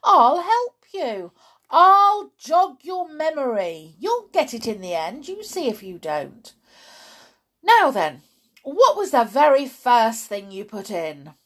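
loud, high, eager coaxing; excited dad. A narrator's reading. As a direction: urge the boy to remember.

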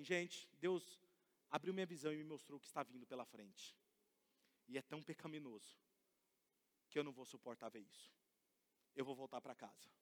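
soft, low, fading solemn words; hushed farewell. Retold or imitated. Old woman solemnly telling people she is going home to God. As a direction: let it sink to a hush.

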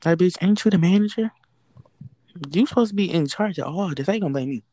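indignant rant. Retold or imitated. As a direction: snap back at the manager in disbelief. Venting at the manager.

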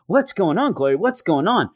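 high, lightly acted alarm; hammed-up concern; mock worried questioning. Acting Foggy questioning crying Glory.

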